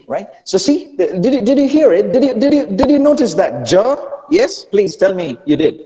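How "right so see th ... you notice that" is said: ordinary delivery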